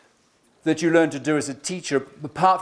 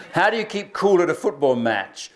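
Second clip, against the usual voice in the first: joke telling. Shown as a demonstration. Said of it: "Here's another one".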